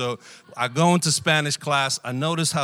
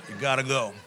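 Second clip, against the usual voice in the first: laughing; faster than usual. Retold or imitated. Retelling the guard sending him out, laughing. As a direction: repeat the guard's line through a laugh.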